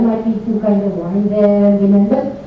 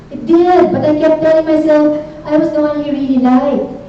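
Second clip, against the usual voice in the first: put-on emotional teen; 5 semitones higher, 3 dB louder than usual. Teen confides about boyfriend.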